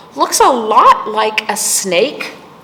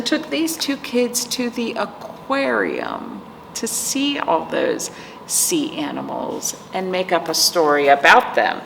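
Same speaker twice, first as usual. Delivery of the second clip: secret whispered guess; 3 semitones lower, 5 dB quieter than usual. Real, not acted. Reader confiding her guess to the kids, whispered. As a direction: share it like a secret. Musing to kids about the story.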